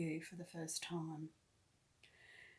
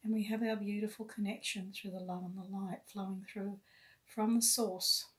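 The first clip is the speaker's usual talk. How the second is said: guided meditation. Real, not acted. Guide leading listeners to love and light, meditative. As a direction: lead them inward unhurriedly, phrase by phrase.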